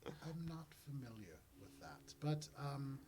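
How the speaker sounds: lightly voiced, partly whispery questioner; a touch hushed, rising into the question; Mister Gift. Mister Gift interviews young Glub, in a lightly hushed voice. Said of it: "Mister Gift goes".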